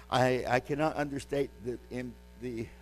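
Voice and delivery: breathless, words cut off mid-sentence; losing breath partway through the line; short of breath. Real, not acted. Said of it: "I'm short of breath today".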